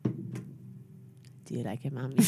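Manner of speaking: put-on slow whispered child voice; childlike voice. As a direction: ask like a shy little kid. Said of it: "deliver it like a six-year-old".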